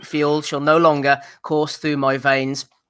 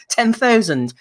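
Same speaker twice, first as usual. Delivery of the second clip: "Ten thousand" laughed out higher and slow; laughing scorn; 7 semitones higher, slower than usual. Real, not acted. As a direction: scoff at "ten thousand", drawn out. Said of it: "I piss on those numbers".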